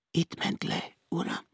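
high, hushed, timid confession; small scared voice of a servant; frightened girl. A narrator's reading. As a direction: give it away softly in a high voice. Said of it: "A hindu lány remegve állt előtte".

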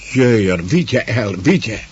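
high, pressing cry for help; frantic pleading. A narrator's reading. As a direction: plead for someone to come at once. Panicked girl begs for help.

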